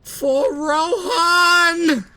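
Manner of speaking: long high war cry; battle cry. Pretend. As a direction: shout it like charging into battle. Battle cry in strategy game.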